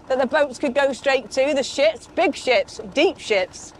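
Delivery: lips numb from cold, slightly slurred. Real, not acted. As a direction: talk through numb, frozen lips. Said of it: "I'm cold, my lips are numb".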